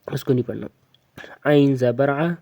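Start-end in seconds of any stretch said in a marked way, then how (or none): 0.1-0.7 whisper. Real, not acted. Aside to the learner.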